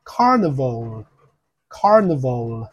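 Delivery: careful teacher's "carnival", faint "le" ending; light final L. Shown as a demonstration. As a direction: draw out "carnival", lightly closing on L. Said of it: "嘴巴后面都会做一个了的音".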